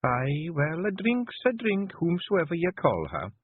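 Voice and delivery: soothing. A narrator's reading. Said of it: "said Jeanie soothingly".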